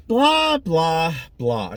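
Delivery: high, loud mock chatter; mock blah blah. Mocking her own talk to viewers, playful blah blah. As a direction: poke fun at her own rambling. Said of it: "Do I ever stop talking?".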